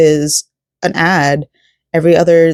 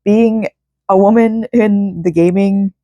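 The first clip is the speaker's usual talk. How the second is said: teary-eyed; 5 semitones higher than usual. Real, not acted. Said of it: "I'm getting teary-eyed over it".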